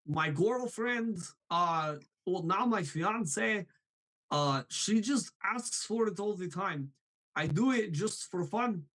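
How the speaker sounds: silly frustrated villain voice; cartoon villain with rolling pitch; Gru. Shown as a demonstration. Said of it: "this is the voice I use".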